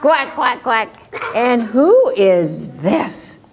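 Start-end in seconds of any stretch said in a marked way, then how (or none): 0.0-0.9 lightly imitated duck; quick, clipped little quacks. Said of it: "What does a duck say?".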